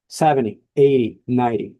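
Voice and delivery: "Seventy, eighty, ninety" with first-syllable stress and a weakened T; T left unpronounced. Shown as a demonstration. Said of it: "you don't say the T because of the stress".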